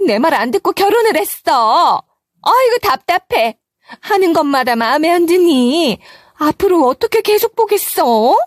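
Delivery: 높은 목소리로 며느리를 다그치는 시어머니; 답답하다는 듯 높게 쏘아붙이는 시어머니; 시어머니의 타박. Acted. 임신한 며느리 구박. (며느리를 구박하는 시어머니의 높고 날선 목소리)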